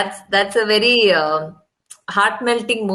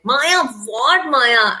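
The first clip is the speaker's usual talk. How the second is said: mild retold snap; 4 semitones higher, much slower than usual. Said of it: "I snapped at her".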